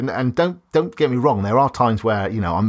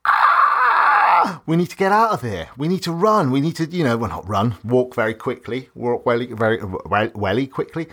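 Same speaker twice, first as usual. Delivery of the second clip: mock fire-alarm panic; 2 semitones higher than usual. Imitating someone panicking as the fire alarm goes off, hammed-up. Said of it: "if the fire alarm's going off".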